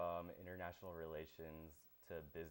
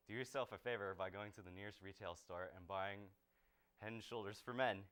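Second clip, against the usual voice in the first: shampoo commercial read; 3 semitones higher than usual. Acted. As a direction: chat to the viewer like a TV ad.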